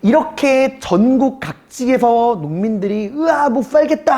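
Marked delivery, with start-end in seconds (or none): 3.1-4.2 high, strained cry of fed-up farmers; a quick hammed-up groan of protest; mock peasant outcry. Peasants rising up in revolt.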